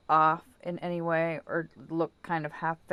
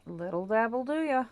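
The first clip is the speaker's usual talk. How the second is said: commercial jingle quote; 4 semitones higher than usual. Retold or imitated. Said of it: "old Dippity Doo commercials".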